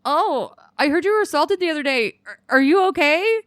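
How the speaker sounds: high, sugary fake-caring voice; mock concern. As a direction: ask like you barely mean it.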